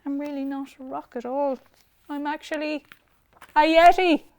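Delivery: high strange yeti voice; a shy creature revealing itself; rising high creature voice, ending loud. Acted. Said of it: "there came a voice".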